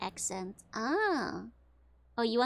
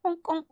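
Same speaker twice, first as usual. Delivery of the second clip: clown honk; 5 semitones higher than usual. Pretend. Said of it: "I'm trying to do a clown meow".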